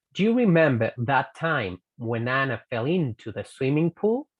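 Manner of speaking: whole line run together without pauses; linked sentence. Shown as a demonstration. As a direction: glide through each word join. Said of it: "lo uno".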